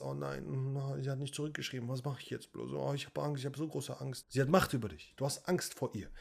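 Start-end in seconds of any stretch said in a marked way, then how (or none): 0.0-4.3 soft, whimpering mock panic, quieter; mock fearful whining. Coach mocking an anxious man over an unanswered text, soft mock whimper. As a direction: mimic a scared boyfriend fretting in a small voice. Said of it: "emotional Gedanken darüber machst".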